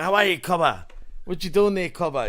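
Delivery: broad Australian, words run together; true blue Aussie. Retold or imitated. Australian showing how some locals greet mates, broad Aussie. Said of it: "the real true blue Aussies".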